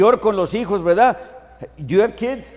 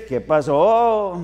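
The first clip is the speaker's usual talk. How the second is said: slow, drawn-out country hello; ranchero tone; much slower than usual. Shown as a demonstration. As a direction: drag it out with the little tone. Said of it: "Tiene que haber el tonito y todo". (con el tonito ranchero, lento)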